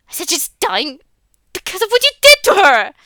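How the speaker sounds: loud, high rising fury; angry shout. Acted. Boy repeating it to the father, shouting. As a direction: hurl the accusation back.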